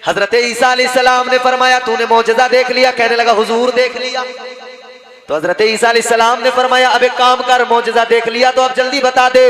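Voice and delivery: loud, ringing sermon storytelling; full-voiced preacher narration; preaching. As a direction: preach the tale out to the crowd. Preacher tells miracle story.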